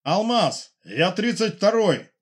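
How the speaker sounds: high, loud radio call breaking into a shout; shout over the radio. A narrator's reading. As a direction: yell it into the radio, desperate. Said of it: "Голос в эфире сорвался на крик". (срывающийся на крик голос в эфире)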